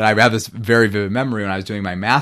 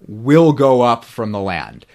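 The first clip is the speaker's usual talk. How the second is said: WILL punched louder and drawn out; stress on WILL; 2 semitones higher, 5 dB louder, slower than usual. Shown as a demonstration. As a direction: lean hard and slow on "will". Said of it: "which makes no sense".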